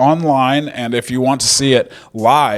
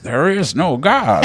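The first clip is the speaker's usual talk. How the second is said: slow eerie whisper; 5 semitones higher than usual. Retold or imitated. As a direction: whisper it darkly, slowly. Continuing the mumbling bit.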